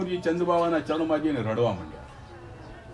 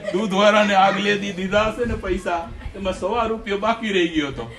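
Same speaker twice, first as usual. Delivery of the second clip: laughing while talking; 4 semitones higher, 5 dB louder than usual. Real, not acted. Explains joke while still laughing.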